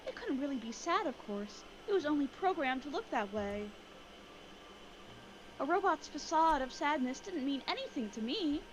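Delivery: put-on anime girl voice. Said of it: "I'm gonna try the anime girl voice".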